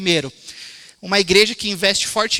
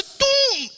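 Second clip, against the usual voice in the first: ear pop. Retold or imitated. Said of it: "Irmãos, tava assim".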